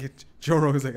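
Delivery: normal talking voice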